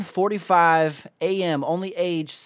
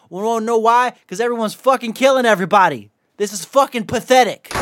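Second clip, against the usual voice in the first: mad, fed up; 2 semitones higher, 3 dB louder than usual. Real, not acted. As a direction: rail in disgust, hitting the swear words harder as it builds. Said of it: "I'm just getting a little bit fucking mad".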